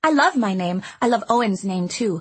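put-on high, eager chatty girl; bubbly little girl rushing her words; young girl voice. A narrator's reading. Girl gushes.

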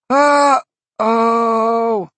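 high, loud breathy yelp; startled little demon; whiny demon voice. A narrator's reading. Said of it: "in that breathy, whiny voice".

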